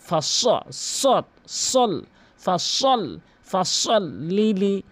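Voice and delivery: ফাসল piece by piece with heavy স; saad drill. Shown as a demonstration. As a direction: break up ফাসল, each স thick and strong. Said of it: "সতের উচ্চারণ করতে হবে". (ফাসল-এর সোয়াদ মোটা করে)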